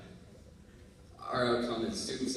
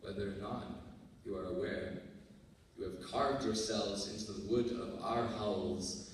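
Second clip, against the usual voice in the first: hushed slam poetry. Acted. Student acknowledging teachers' lasting mark, hushed slam poetry.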